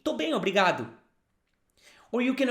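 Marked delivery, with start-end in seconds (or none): 0.0-0.9 Tô bem, obrigado said clearly to copy; model phrase. Shown as a demonstration. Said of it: "repeat after me".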